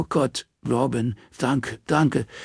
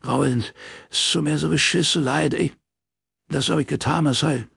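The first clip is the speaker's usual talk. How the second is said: sobbing plea; 9 semitones higher than usual. Acted. Morris begging Robin not to tell, sobbing desperately. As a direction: beg through dry sobs. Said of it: "Sturm trockener Schluchzer".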